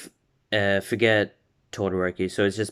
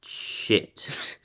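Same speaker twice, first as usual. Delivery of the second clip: stunned, drawn-out whisper; inner-thought whisper; 5 dB quieter than usual. Retold or imitated. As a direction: whisper the swear to yourself. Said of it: "said that in their mind".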